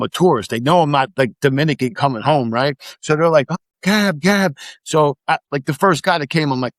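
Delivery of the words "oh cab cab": higher-pitched mock hawker call; cab drivers calling out. Cabbies hailing a tourist outside the airport, calling out. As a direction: lightly imitate cabbies touting for a fare.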